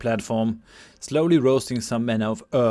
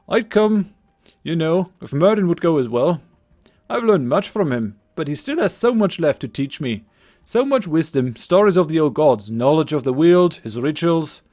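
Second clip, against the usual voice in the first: put-on lightly overdone Scottish accent; a young villager's Scottish lilt; 3 semitones higher, 3 dB louder than usual. Game master voicing Cillian to the party, Scottish accent. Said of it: "my attempted Scottish accent".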